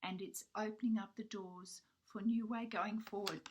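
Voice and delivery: hoarse voice giving out; losing voice. Real, not acted. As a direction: voice fading to a husky half whisper. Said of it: "Sorry, I'm losing my voice".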